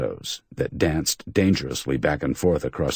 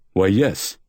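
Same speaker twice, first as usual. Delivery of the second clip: puzzled; 4 semitones higher than usual. Acted.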